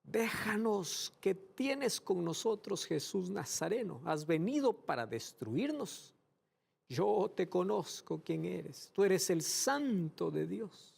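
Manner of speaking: high, slow, pleading demon voice; demon crying out. Acted. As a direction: cry out as the possessed man before Jesus. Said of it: "el cual exclamó a gran voz". (voz de demonio suplicante, aguda y lenta)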